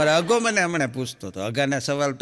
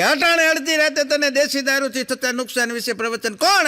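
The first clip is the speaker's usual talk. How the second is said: officer's disbelief; 8 semitones higher, 3 dB louder than usual. Retold or imitated. Officer questioning drunk.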